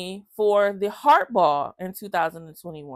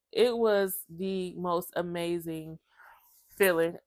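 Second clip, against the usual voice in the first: whisper; 3 semitones lower, 6 dB quieter than usual. Real, not acted. Emotional relief at listing.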